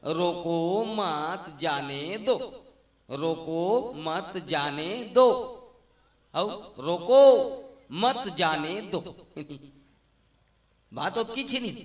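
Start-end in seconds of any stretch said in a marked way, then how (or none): 0.1-2.4 very slow, drawn-out रोको, मत, जाने, दो; no grouping of मत, each word drawn out. Shown as a demonstration. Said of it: "शब्द उच्छे ना". 3.1-5.3 slow, stretched रोको, मत, जाने, दो; evenly spaced words, मत on its own. Shown as a demonstration. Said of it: "शब्द उच्छे ना". 6.8-9.0 loud rising "रोको", then slower "मत जाने दो"; pause after रोको. Shown as a demonstration. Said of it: "शब्द उच्छे ना".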